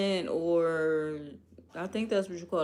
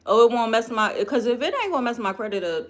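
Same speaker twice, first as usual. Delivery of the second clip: laughing; 3 semitones higher, 6 dB louder, faster than usual. Real, not acted. Laughs at the loophole.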